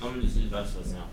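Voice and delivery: talking with a mouth full of food. Real, not acted. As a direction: talk through a mouthful. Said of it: "Excuse me for talking with my mouth full".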